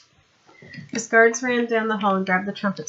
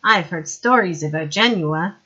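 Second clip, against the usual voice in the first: snorting sneer; 6 dB louder, slower than usual. Acted. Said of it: "Winder snorted".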